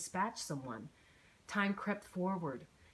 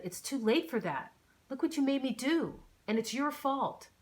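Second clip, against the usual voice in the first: louder, each word hit hard and separately; punctuating each word; 7 semitones higher, 4 dB louder than usual. A narrator's reading. Gunman blaming his victim, every word hammered. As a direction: spit out every word like a blow. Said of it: "He punctuated each word".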